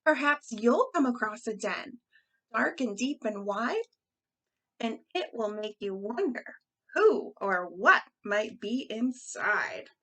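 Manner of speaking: measured storybook reading with stressed key words; lilting read-aloud, slowing at the end; reading to children. Acted. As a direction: read it like a picture-book rhyme. Reads a rhyme to children.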